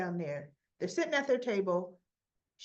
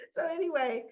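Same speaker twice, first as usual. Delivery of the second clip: ordinary talk, nothing marked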